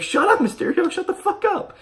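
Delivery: very high, loud shouted rant; yelling at Mysterio. Retold or imitated. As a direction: scream it at the villain on screen. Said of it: "I was like".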